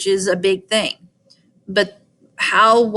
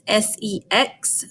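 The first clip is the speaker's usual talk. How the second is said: spelled out slowly; 4 dB quieter, slower than usual. Shown as a demonstration. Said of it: "write the word sex".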